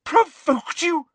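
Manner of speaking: high, loud, slow outraged question; shouted indignation; incredulous shout. Acted. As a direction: throw it back in disbelief. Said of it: "shouted Professor McGonagall".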